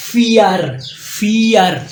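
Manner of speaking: फियर with an f sound at the start; German vier. Shown as a demonstration. Teacher models German four, f sound. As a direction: say फियर with f, not v. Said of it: "वी को आप एफ की आवाज़ में".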